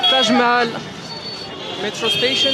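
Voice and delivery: French speaker putting on a little English accent. Shown as a demonstration. Vlogger reads out the station name in an English accent. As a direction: read the sign with an English accent. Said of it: "c'était, c'est mon petit accent anglais".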